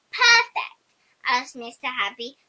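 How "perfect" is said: surprised. A narrator's reading. Mr Happy's surprised question.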